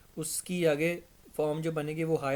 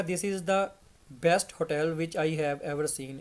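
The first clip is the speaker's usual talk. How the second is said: very slow, deliberate; slow model sentence; slow example; much slower than usual. Shown as a demonstration. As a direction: read the example sentence slowly. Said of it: "जैसे मैंने कहा".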